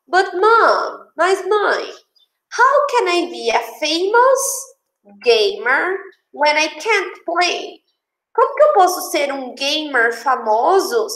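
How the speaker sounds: lightly acted child's protest to mom; puzzled protest. Cristina doesn't understand why she can't play, mildly puzzled protest. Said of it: "a Cristina, sem entender, ela fala assim".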